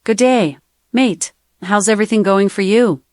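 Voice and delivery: sample Australian-accented greeting. Shown as a demonstration. Assistant giving the host accent samples, Australian accent. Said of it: "Australian accent".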